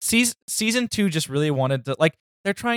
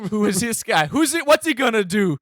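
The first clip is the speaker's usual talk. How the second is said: confused high voice; 8 semitones higher than usual. Pretend. Mocking confused viewer.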